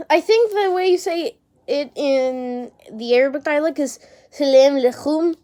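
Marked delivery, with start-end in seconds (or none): 4.3-5.4 nasal take on "salam alaikum"; nasally voice. Shown as a demonstration. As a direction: say "salam alaikum" through the nose. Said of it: "I'm saying it in a na-, nasally voice".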